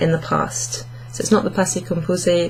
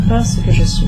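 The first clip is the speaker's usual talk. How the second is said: very high, strained voice on Je ne serais pas ce que je suis; mock struggling squeak; 4 dB louder than usual. Teacher hamming up the hard riddle line, very high. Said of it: "See, this is kinda hard".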